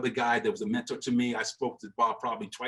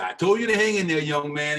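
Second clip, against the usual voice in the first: higher and louder, fatherly pride; Buck O'Neill impression; 3 semitones higher, 5 dB louder than usual. The old mentor reminding Willie he said hang in there, higher and louder. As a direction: call him young man like a proud elder. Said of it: "that's the Buck O'Neill impression".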